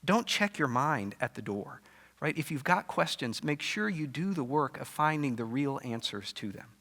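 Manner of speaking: a quiet, earnest push to think it through; lightly voiced Jesus urging patience. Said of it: "Jesus is really pushing him".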